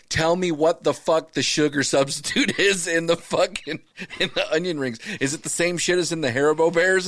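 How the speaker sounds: mock outraged phone question; exasperated demand. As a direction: press Jake for the answer, half-laughing.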